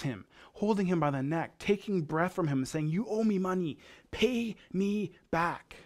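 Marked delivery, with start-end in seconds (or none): 2.9-5.8 raised, mock-menacing demand, higher; retold angry demand. Creditor choking a fellow servant over money, retold angry demand. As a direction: act out a creditor demanding payment, drawing out the last words.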